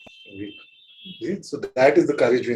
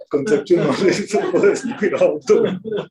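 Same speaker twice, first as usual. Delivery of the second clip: words through laughter; laughing; 5 semitones higher, 3 dB louder than usual. Real, not acted. Teacher laughing at students' bookish wisdom.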